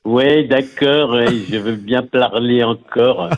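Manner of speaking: slow, drawn-out Homer voice; lazy cartoon dad, stretched out; Homer Simpson voice. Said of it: "Je vais lui demander".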